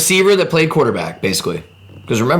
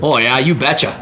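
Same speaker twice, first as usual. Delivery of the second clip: mock Minnesota accent; slower than usual. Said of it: "they basically sound like Canadians".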